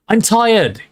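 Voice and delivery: high, loud tired bellow. A narrator's reading. Harry bellowing at the crowd in the common room, loud and fed up. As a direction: bellow it out to end the questions. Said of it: "he bellowed finally".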